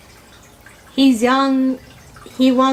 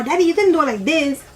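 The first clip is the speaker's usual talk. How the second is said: put-on whiny kid; 4 semitones higher, faster than usual.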